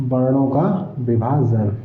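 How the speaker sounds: slow, deliberate वर्णों का विभाजन dictated word by word; teacher dictating वर्णों का विभाजन slowly to students; slow dictation. Shown as a demonstration. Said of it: "कंपन के आधार पर वर्णों का विभाजन".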